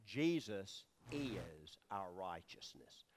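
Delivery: slow, breathy whispered declaration; hushed, intimate slow whisper. Real, not acted. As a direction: drop to a reverent whisper. Hushed declaration of core truth.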